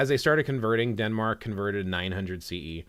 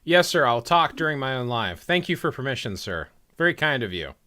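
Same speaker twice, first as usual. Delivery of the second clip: mock deference; 3 semitones higher, 5 dB louder than usual. Mock deference to cohost's order.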